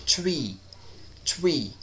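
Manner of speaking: "Tree" for three, starting on a simple T; "Tree" with a hard T, falling at the end; TH as plain T. Shown as a demonstration. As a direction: say "Tree" with no TH at all. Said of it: "Eles não fazem muita distinção".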